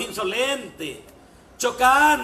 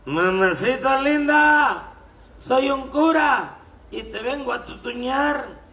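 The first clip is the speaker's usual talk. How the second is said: put-on drunk calling out; 3 semitones higher, 4 dB louder, slower than usual. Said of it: "le grita el borracho del largo".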